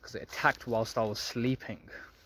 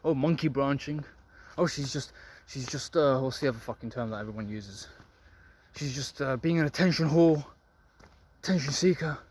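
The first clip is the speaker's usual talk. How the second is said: bitter incel whine. Retold or imitated. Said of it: "all bitter and frustrated and be like".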